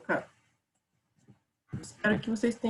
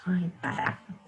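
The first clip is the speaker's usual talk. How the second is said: under the breath; muttered annoyance at a mistake; real whispered sigh of annoyance; whispered frustration; 4 semitones lower, 6 dB quieter than usual. Real, not acted. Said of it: "fiz caquinho".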